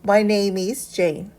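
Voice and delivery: very slow "My name is Jane." as a class model; slow model reading. Shown as a demonstration. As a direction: read it slowly for the class to copy. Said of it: "한번 읽어보세요".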